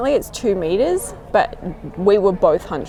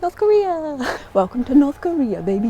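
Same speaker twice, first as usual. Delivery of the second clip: excited announcement; 6 semitones higher than usual. Real, not acted. Arriving at border, excited.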